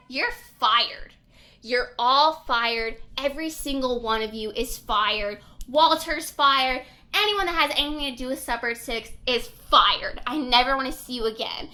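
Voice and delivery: loud, acted angry boss; tantrum firing. Boss sacking the whole show, mock tantrum at full volume. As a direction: imitate a boss firing everyone in a rage. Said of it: "letting him throw this tantrum".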